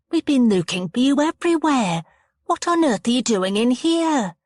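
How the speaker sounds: exasperated scolding. A narrator's reading. Hostess finds missing boy.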